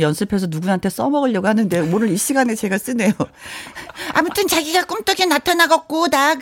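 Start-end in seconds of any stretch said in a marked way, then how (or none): 4.1-6.4 lightly voiced coy girlfriend, higher; cutesy girlfriend. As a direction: play a coy sweet girlfriend. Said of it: "연기를 또 해봤습니다". (애교 섞인 여자친구)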